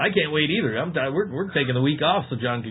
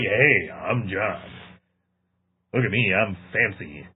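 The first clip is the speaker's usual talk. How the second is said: mock show-off; 6 dB louder than usual. Friend mocks how he talks to girls, a light smug brag. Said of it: "don't be like".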